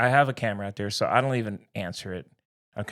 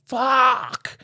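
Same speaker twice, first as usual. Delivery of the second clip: retold angry outburst; 4 semitones higher, 4 dB louder, much slower than usual.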